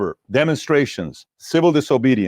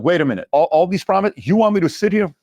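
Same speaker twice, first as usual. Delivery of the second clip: rising, indignant mock Putin, much higher by the end; a light, pitched-up take on an outraged Putin; imitating Putin; 6 semitones higher than usual. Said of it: "Now imagine you're Putin".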